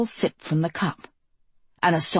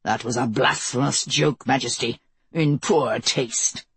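cold angry rebuke; 5 semitones lower than usual. Acted. Holy Father angrily rebukes.

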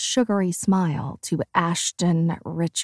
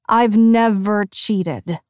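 slow growl, a touch louder; 2 semitones higher, 5 dB louder, slower than usual. Acted. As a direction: growl it out slowly. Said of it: "I growl".

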